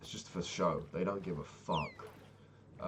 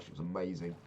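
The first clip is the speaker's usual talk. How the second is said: ordinary delivery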